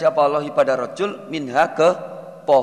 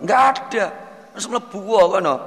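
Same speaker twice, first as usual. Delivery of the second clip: high casual reply; 5 semitones higher, faster than usual. Acted. God's casual reply voiced.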